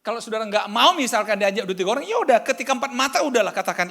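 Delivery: high, loud sermon cry to the congregation; preaching at full force. Acted. (khotbah berapi-api, suara tinggi dan keras)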